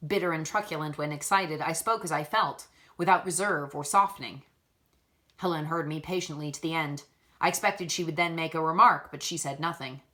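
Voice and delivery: measured, even storytelling read; story narration. A narrator's reading. Reader narrating a classic novel chapter, steady storytelling voice. Reads Jane Eyre chapter aloud.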